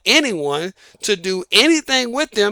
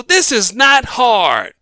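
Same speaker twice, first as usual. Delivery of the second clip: slow and weighted, word by word; slow, emphatic; slower than usual. Real, not acted. Host scolding his audience, slow and emphatic. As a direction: spell it out slowly. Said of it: "Come on, people".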